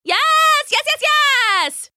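high, slow, giddy rabbit squeal; a bouncing little rabbit cheering; excited rabbit voice. A narrator's reading. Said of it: "Toki said, foot thumping".

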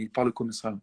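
Marseille French with final e's sounded; Marseille accent. Shown as a demonstration. French speaker calling it bizarre, Marseille accent. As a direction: lightly imitate a Marseille speaker. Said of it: "c'est très bizarre".

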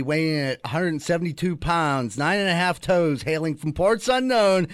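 boxing ring announcer intro; grand entrance announcement. Pretend. Boxing-style intro of a guest.

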